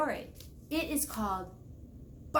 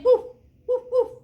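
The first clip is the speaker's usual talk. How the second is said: loud, high little woofs; puppy woofs; 9 semitones higher, 8 dB louder, faster than usual. Acted. Mother shows her puppy how to bark, loud high woofs.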